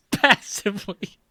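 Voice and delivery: mocking repeat. Real, not acted. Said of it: "not the best descriptor".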